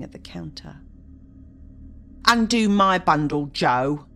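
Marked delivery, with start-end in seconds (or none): 2.2-4.1 put-on coarse, cackling old charwoman; chatty grumbling charwoman. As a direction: grumble and gloat over stolen goods. Charwoman haggling with pawnbroker.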